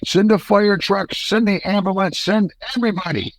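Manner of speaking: imitating a panicked wife on the phone; frantic wife. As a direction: beg dispatch to send everyone. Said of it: "Deborah's like".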